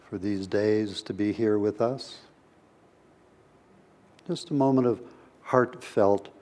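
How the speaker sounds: unhurried meditation guidance with long pauses; guided meditation. Real, not acted. Teacher opening a session with a brief meditation, guided meditation voice. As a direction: gently lead listeners inward, leaving space between phrases.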